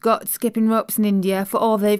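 lightly voiced Yorkshire housemaid, chatty and pleased; broad Yorkshire vowels, friendly and eager; Yorkshire maid. Maid telling the little girl about home, light Yorkshire accent. Martha's Yorkshire dialect speech.

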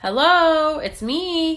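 high, loud joyful call. A narrator's reading. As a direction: call to his found friends. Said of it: "he called".

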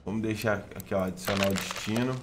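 ordinary talk, nothing marked

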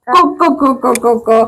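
short repeated imitated clucks; hen clucking. Shown as a demonstration. Showing a toddler how a hen calls, clucking. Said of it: "കോഴി എങ്ങനെ കൊക്കുന്നേ".

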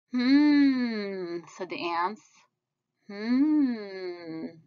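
thoughtful hum. Acted.

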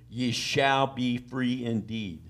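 "shall" drawn out in a slow reading; stress on SHALL. Shown as a demonstration. Preacher showing the promise in the verse, stressing "shall". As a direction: lean slowly and firmly on "shall". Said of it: "Anytime the word "shall" is used".

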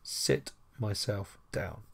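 slow literal reading. Shown as a demonstration. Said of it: "So, literally".

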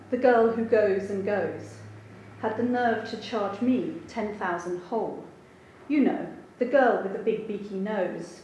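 wry, rhythmic reading of a comic poem; teasing recital of a satirical verse; poetry reading. Acted. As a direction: lean on the rhymes with dry irony. Reads her comic translation.

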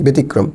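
ব্যতিক্রম with a plain "be" at the start; closed "e" vowel. Shown as a demonstration. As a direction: say ব্যতিক্রম as "be-ti-krom". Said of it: "আমরা একার লিখতেছি".

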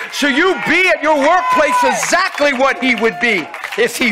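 full-force preacher cry; preaching. Acted. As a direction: preach it hard to the congregation.

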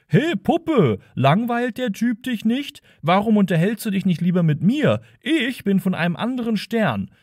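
mock the smooth-talking flirt; smarmy pickup line.

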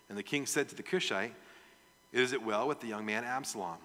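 measured Bible reading voice; scripture reading. Acted. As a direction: read the passage aloud to the church. Reads the Bible passage aloud.

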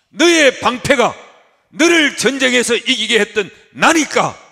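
높고 크게, 느리게 외치는 선포; 마디마다 힘을 실어 우렁차게 선언하라. Acted. 하나님 말씀을 힘껏 외침. (힘차게 외치는 선포)

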